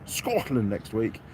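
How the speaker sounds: slow mock-Scottish, not quite landing; stretched, amateur Scottish accent; attempted Scottish accent. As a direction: try Scottish and miss. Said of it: "I can't do a Scottish accent".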